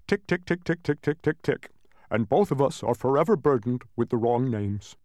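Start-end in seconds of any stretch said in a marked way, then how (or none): 0.1-1.7 evenly spaced clock ticks; mechanical, regular ticking; imitated clock ticking. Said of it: "because I go".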